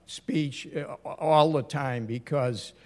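native Boston accent, everyday talk; just talk in your real Boston accent. Real, not acted. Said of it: "despite my, uh, Boston accent".

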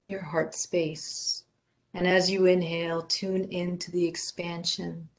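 settled, even voice, leaving space to breathe; guided meditation. Acted. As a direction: guide listeners gently into stillness, unhurried.

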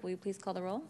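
usual speaking voice

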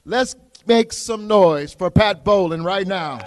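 loud call for the crowd to cheer; rally speech. Real, not acted. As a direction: shout it out to the stadium. Calling for crowd noise.

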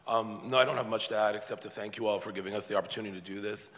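hoarse, strained, losing voice. Real, not acted. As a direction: push through a failing hoarse voice. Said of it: "Sorry, I'm losing my voice".

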